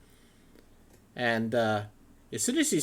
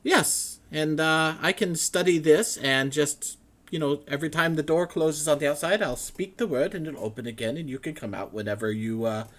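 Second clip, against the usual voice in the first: a giddy trapped academic, pitched way up; excited scholar; 5 semitones higher than usual. Acted. Matrius explains the door.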